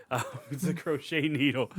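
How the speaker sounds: laughing through "it's a crochet needle". Real, not acted. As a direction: giggle while correcting yourself. Laughs at own mistake.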